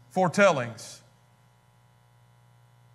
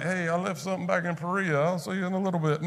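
sheepish excuse; 5 dB quieter, faster than usual. Retold or imitated. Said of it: "I'd have been like".

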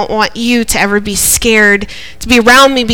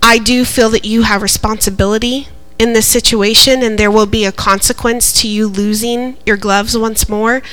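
retold apology. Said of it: "I told Hudson, I said".

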